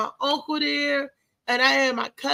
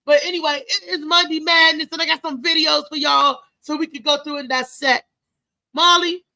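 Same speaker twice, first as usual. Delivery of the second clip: louder, higher, snapping out of the sad mood; pumped-up show host; 3 semitones higher, 5 dB louder than usual. Real, not acted. Host to his audience and Molly, switching back to loud hype. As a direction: shake off the tears and hype the crowd. Host pumps up, cues clip.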